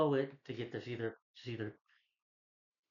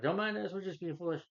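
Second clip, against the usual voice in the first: mock innocent; 7 semitones higher than usual. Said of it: "it's like".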